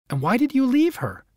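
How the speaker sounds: a hint of a puzzled snowman. A narrator's reading. Snowman asks the dog.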